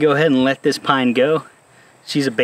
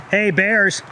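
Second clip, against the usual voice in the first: high call to shoo bears; scaring off a bear; 6 semitones higher, much slower than usual. Real, not acted. Spots bears on the trail.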